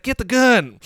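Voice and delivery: high, loud hillbilly yell; hammed-up Southern shout; redneck shout. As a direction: bark it at the family. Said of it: "And he's like".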